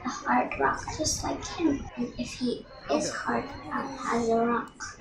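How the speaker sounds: soft, near-whispered prayer of a hurt mother; grieving prayer. Acted. Grieving mother prays a curse.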